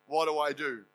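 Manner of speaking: low, soft, defeated lament; dejected lament. Pretend. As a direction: sigh it out like a let-down believer. Mocking dejected believer.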